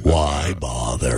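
a deep mopey Eeyore. Pretend. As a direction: drag it out like a glum donkey. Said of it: "that's a Eeyore".

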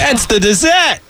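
hammed-up Australian punchline; Australian accent. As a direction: put on a cartoon Aussie voice. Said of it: "I'm doing an Australian accent".

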